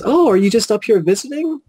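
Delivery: high-pitched imitation of a chatty lady; lady at the table. Lady greeting a new acquaintance, high imitated voice. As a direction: mimic her up high. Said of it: "She goes".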